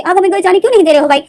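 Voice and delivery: put-on high, loud tearful child's complaint; child pleading. Little brother protesting to big brother, high loud whine. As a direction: wail at big brother like a hurt kid.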